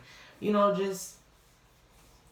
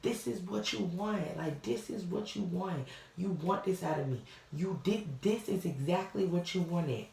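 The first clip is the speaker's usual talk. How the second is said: high, slow tearful plea, voice straining upward; reliving a sobbing accusation, slow and high; crying; 5 semitones higher than usual. Retold or imitated. During the fight with her partner, a high, slow crying plea. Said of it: "fighting and crying".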